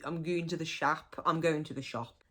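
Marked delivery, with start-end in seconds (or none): 0.1-1.2 "shap" with a flat open a, Black Country style. Shown as a demonstration. Teaching Black Country dialect, a broad local "shap". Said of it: "So if you hear people saying".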